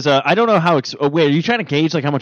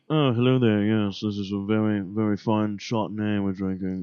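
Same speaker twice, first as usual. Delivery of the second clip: put-on posh English accent; 6 semitones lower, 8 dB quieter than usual. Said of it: "and then you also have the".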